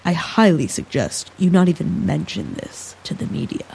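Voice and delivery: a lightly voiced cold official, icy and measured; coolly warning him off, a hint of ice. Koichi coldly warning Tyler off the media, a touch icy. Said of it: "as cold and icy as the rain".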